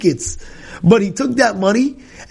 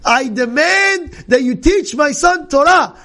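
demanding mother; 7 semitones higher, slower than usual. Retold or imitated. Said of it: "He says".

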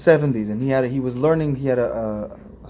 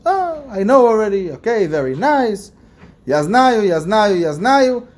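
higher, slow, bored know-it-all brushing it off; complacent old-timer; 7 semitones higher, 4 dB louder, slower than usual. Retold or imitated. Preacher mimicking a smug elder who thinks he already knows. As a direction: drawl out a lazy "yeah, yeah, I know". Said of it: "what would we do if we would be seventy-five".

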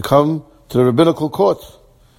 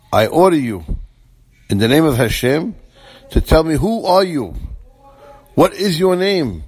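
retold stern order, rising higher; solemn command; 5 semitones higher than usual. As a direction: demand it formally, slowing on the last question. Rabbi demanding prisoner's identity.

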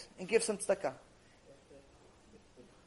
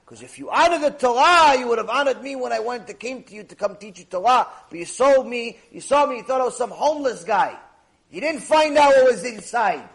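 stern rebuke; 3 semitones higher, 5 dB louder than usual. Acted. Rebuke continues, building.

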